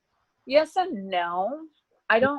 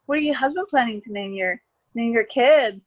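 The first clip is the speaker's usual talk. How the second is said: higher-pitched imitation of curious questioners; nosy people; 4 semitones higher than usual. People asking a single pregnant woman about husband, mock-curious. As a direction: lightly mimic people prying cheerfully. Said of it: "people would be like".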